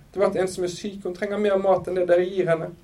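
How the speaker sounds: high-pitched pleading; mildly acted begging. A narrator's reading. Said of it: "tryglet hun".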